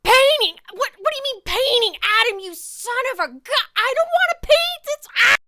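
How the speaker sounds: loud, high-pitched indignant tirade; angry outburst. Acted. Painter yells at Adam over having to paint, angry. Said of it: "she sounds really angry".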